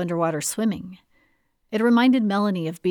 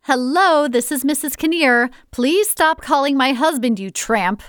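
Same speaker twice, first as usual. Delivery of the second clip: wife's warning; 7 semitones higher, 6 dB louder than usual. Acted. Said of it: "would go something like".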